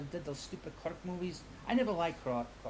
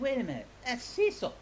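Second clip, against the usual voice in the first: retold disbelief; 5 semitones higher than usual. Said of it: "and I was like".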